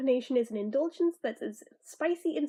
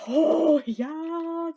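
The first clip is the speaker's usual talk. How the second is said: loud, high squeal of delight; excited squeal; 4 semitones higher, 6 dB louder than usual. Retold or imitated. To viewers, reacting to the chai flavor with a delighted squeal. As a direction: squeal it like you just got great news. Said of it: "I'm just like".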